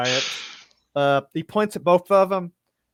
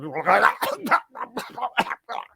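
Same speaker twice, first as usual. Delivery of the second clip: sputtering, higher-pitched garbled outburst; garbled cleric noise; 6 semitones higher than usual. Acted. Game master voicing a cleric shaking back to life, garbled noise. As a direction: sputter like someone coming unfrozen. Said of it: "and he goes".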